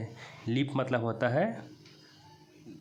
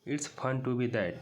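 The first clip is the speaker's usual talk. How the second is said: very slow, word by word; slow reading aloud; much slower than usual. Shown as a demonstration. Teacher re-reading the line to students, very slowly. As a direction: read it out slowly for the class. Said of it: "वैसा बनना मज़ेदार है".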